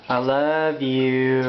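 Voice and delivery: slow tender I love you. Real, not acted. Parent coaxing baby to talk.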